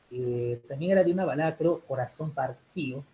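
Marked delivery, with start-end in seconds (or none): 1.8-3.0 "Partido" said par-TÍ-o, without the second d; dropped d. Shown as a demonstration. Teacher naming a song title, "Partido" with the d dropped. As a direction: drop the d in "Partido", as in partío. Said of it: "ellos dicen más partido".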